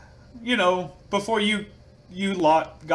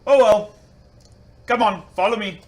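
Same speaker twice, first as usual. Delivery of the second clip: put-on higher and louder Australian accent, breezy; 5 semitones higher, 6 dB louder than usual. Bruce casually leads the students into the woods, Australian accent. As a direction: shrug it off in a hammed-up Australian accent. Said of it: "really horrible with accents".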